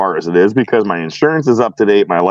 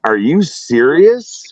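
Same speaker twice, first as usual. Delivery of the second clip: slow, higher incredulous question; amused disbelief; 4 semitones higher, slower than usual. Retold or imitated. Driver to officer over the pot-pipe claim, incredulous. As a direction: draw out the question in mild disbelief. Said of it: "I busted out laughing".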